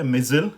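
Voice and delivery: मिसाइल said "miz-ul"; American missile. Shown as a demonstration. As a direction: clip the end of मिसाइल. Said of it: "ये फ़र्क है इस तरह से".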